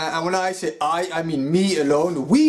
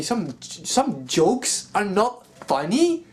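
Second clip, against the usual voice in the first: incredulous echo; 4 semitones higher, much slower than usual. Real, not acted. Incredulous repeat of the quote.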